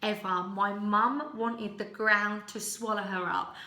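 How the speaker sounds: ordinary talk, nothing marked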